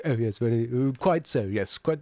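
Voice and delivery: mock upper-class British politeness; super-posh British accent. Host mocks TV idea of British, super-posh accent. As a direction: play a very posh Brit agreeing. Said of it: "it's super posh".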